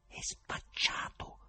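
slow, hushed, pitiless verdict; soft, drawn-out merciless murmur; ruthless low voice. A narrator's reading. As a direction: whisper it slowly and mercilessly. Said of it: "Una bassa disse spietata".

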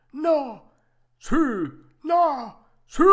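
botta e risposta gridato a due voci; battibecco urlato. Acted. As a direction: urla ogni monosillabo, molto acuto. (battibecco a squarciagola)

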